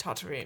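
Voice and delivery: Tatooine as "TAH-tuh-reen", open first vowel; Luke's variant of Tatooine. Shown as a demonstration. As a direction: say Tatooine softly with an AH. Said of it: "is he saying it correctly?".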